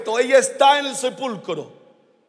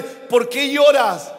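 gentle question; slower than usual. Shown as a demonstration. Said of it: "a tu lado y dile".

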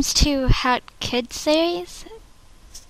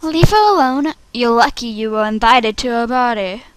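forceful reproach. Acted. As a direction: stand up for her with force. Audition take, forceful defence.

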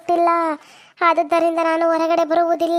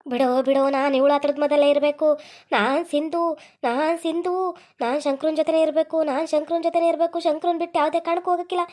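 possessed spirit voice. Acted. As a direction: beg to be let go as the trapped spirit. Possessed woman speaks as spirit.

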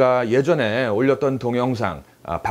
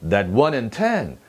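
"That one in ten" glided through as one unit; slow, connected "That one in ten"; smooth linking; much slower than usual. Shown as a demonstration. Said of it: "매끄럽게 가주는 게 포인트예요".

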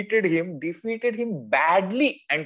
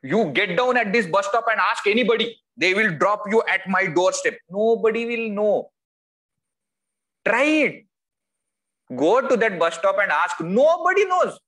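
arrogant boast, pitch climbing much higher; boastful; 5 semitones higher than usual. Retold or imitated. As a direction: brag like a self-important man showing off his fame. Boasting about his own fame.

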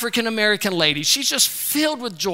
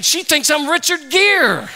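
laughing, higher, louder and slow; can't get it out for laughing; laughing disbelief; 7 semitones higher, 5 dB louder, slower than usual. Real, not acted. Laughing at mistaken identity.

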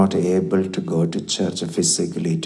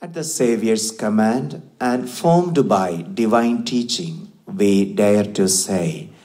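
prayer. Acted. Priest introduces the Lord's Prayer.

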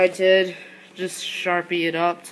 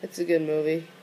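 sick and cold. Real, not acted. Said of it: "I'm kinda sick and freezing".

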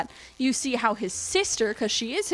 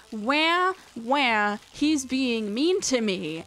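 put-on whiny baby; much slower than usual. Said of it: "a whiny baby that's crying".

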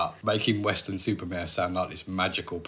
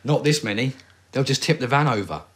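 louder, higher, urgent delivery; better acting; 4 semitones higher, 6 dB louder than usual. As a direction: play it urgent and alarmed.

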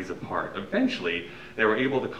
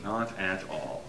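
slow, quiet, somber repeat; somberly; 6 dB quieter, slower than usual. Acted. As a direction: let it sink, heavy and slow. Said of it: "said Santa somberly".

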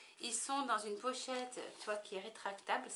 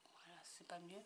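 whisper; 3 semitones lower, 13 dB quieter than usual. Real, not acted. Checking the light under her breath.

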